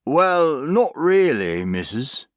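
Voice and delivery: broad West Country workman; thick country accent. A narrator's reading. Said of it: "his country accent as thick as homemade jam".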